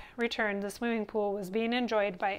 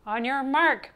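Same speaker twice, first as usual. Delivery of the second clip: loud, raised starting call; coach's bellow; 4 semitones higher, 8 dB louder, slower than usual. A narrator's reading. Coach starts the swim team at the pool, bellowing. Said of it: "bellowed the coach".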